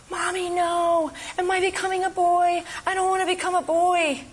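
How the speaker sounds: put-on high, frightened child crying out; frightened little girl. Speaker retelling a child's cry to mommy, high and frightened. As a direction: voice a scared five-year-old calling to her mommy. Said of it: "and she screamed".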